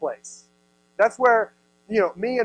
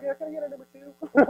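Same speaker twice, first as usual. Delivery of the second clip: lightly voiced breezy customer, a bit higher; casual drive-thru order; 6 semitones higher than usual. Kidnapper ordering at the drive-thru, mock casual. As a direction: order fast food as if nothing happened. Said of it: "duct tape their face like".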